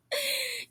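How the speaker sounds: high-pitched demonstrated laugh; mimicked laugh. Shown as a demonstration. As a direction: show off your laugh, high and soft. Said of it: "they like to mimic ... how I laugh".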